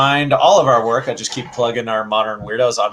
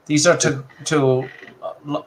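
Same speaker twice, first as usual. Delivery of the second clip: high put-on creature voice; 4 semitones higher than usual. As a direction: speak as the little monster. Voicing the creature toy.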